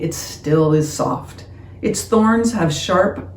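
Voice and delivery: expressive, phrase-by-phrase poem reading; poem recitation. Acted. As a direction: recite with lifted openings and softened endings. Reads a rose poem aloud.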